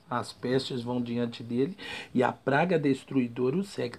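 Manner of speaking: soft, slowed repeat of the verse; quiet reread. Shown as a demonstration. Preacher rereading the verse to listeners, softly. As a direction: hush it, letting it sink in. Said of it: "Isso é o trono de Deus, viu?".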